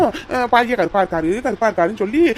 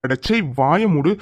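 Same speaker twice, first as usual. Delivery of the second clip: lower, slow commanding hero voice; stern hero; 6 semitones lower than usual. Acted. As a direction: order him slowly like a film hero. Hero threatens the thug. (கதாநாயகன் கடுமையான கட்டளை)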